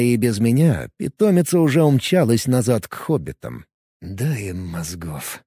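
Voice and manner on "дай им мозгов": very soft, slow, low murmur; quietly repeating the plea; barely audible. A narrator's reading. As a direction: breathe the words almost silently. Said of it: "еле слышно повторил я".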